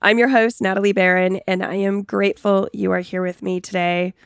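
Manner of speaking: stuffy nose from a cold; sounding under the weather; sick voice. Real, not acted. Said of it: "You may notice I sound a little under the weather".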